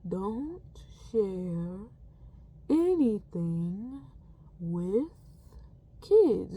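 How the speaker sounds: each word slow with pauses between; said slowly. Retold or imitated. Nurse repeating her warning to the assistant, slow and spaced. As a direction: drag out every word, one at a time. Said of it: "And she says it slowly".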